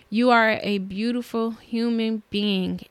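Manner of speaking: human said slowly and leaned on; slow, lean into the word human; stress on human. Shown as a demonstration. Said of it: "Emphasis on human".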